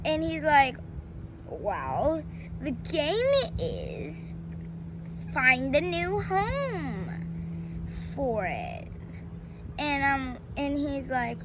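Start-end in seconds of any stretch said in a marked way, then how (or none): 1.5-8.9 sly scheming. Retold or imitated. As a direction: drag it out like a villain. Petey's sly plan to dump kitten.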